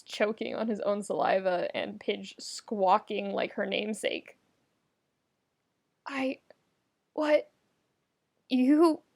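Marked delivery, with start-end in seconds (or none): 6.1-9.0 rising higher with each word; stumble, lost for words; flustered Keith caught off guard; flustered sputter. Acted.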